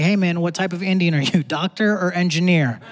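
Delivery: put-on light Indian accent, friendly; friendly Indian uncle, lightly voiced. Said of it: "Indian people walk up to me like".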